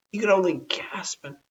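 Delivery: whispered, breathless narration; breathy gasping. A narrator's reading. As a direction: gasp the words out.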